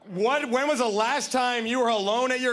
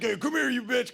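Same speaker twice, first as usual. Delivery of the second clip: rude jerk; 3 semitones higher than usual. Shown as a demonstration. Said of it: "then you're just a jerk".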